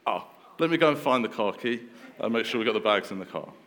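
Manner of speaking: playfully hammed-up eagerness at the thought of a burger; husband jumping up once lunch is offered, mock eager. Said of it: "And she'll go".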